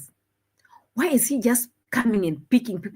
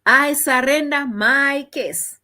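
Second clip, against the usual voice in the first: louder, slow, each word set apart; dramatic surrender; 5 semitones higher, 5 dB louder, slower than usual. Real, not acted. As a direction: declare it like a grand defeat. Dramatic giving up.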